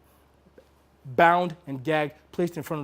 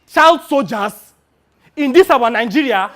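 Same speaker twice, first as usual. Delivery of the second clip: appalled exclamation at the script; shocked outburst; 8 semitones higher, 13 dB louder than usual. Real, not acted. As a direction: blurt it out in horror.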